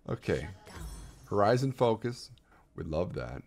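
usual speaking voice

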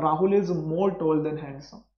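very slow, word by word; slow dictation pace. Shown as a demonstration. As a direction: dictate it slowly for notes. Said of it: "ऐसे बनता है।".

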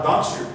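"don't you" blended into "donchu"; merged "don't you". Shown as a demonstration. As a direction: turn T plus Y into a CH in "don't you". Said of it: "ça fait le don't you". (« don't you » lié en « dontchou »)

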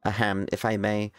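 lightly voiced nerdy scholar; prim, precise nerd reading. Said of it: "that's a nerdy voice".

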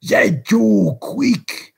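loud, high ruffian's shout; urgent command. A narrator's reading. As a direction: shout a hurried order to an accomplice. Sykes ordering while locking boy in.

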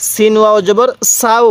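"সাউ" with a thin, sharp s; thin Sin sound. Shown as a demonstration. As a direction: keep the s of "সাউ" fine, never sh. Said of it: "সিনের আওয়াজটা একটু চিকন করে উচ্চারণ করব". ("সাউ"-তে চিকন স-ধ্বনি)

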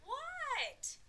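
high, loud yelled question; shouted answer. A narrator's reading. Froggy answers his friend Max, shouting back. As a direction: holler back, stretching the word.

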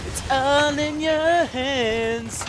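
slow, deliberate self encouragement; slow, drawn-out pep talk. Real, not acted. Gamer calming himself down, slow and drawn out. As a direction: stretch every word, calming yourself.

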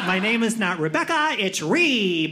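lightly mimicked name correction; corrective. Woman correcting a name-tag reader, mildly mocked insistence. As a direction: play someone fussily correcting their own name. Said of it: "They love to correct".

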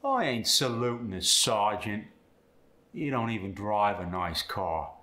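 sergeant and car without the R, "sahjent", "cah"; Cockney scorn, R dropped; Cockney accent. Shown as a demonstration. Student demos the Cockney AR sound.

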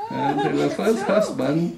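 first husband said slowly with a laugh; amused. Real, not acted. Teacher joking with students, laughing and slow.

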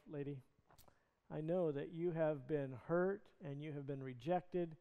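soft, gentle voice of understanding; compassionate. Retold or imitated. Jesus speaking gently to the rejected woman, compassionate. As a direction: speak tenderly to a hurting woman. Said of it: "Jesus is responding with great compassion".

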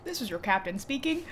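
pilot announcement. Pretend. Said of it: "You kinda sound like a helicopter pilot".

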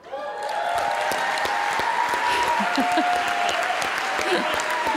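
long breathy high laugh of relief; long delighted laugh. Real, not acted. To the audience after her perfect test results, a long delighted laugh. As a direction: let a long happy laugh roll out.

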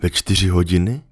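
the fox patiently explaining to the little prince; lightly voiced fox. Fox imagines waiting happily.

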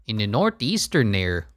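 lightly put-on Canadian accent. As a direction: slip briefly into a Canadian accent. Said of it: "I don't know why I use Canadian accent".

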